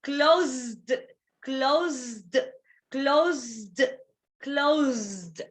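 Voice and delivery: "closed" said slowly as one syllable, klohzzd; vibrating ending. Shown as a demonstration. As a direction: draw out "closed", voicing the zd ending. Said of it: "it is vibrating".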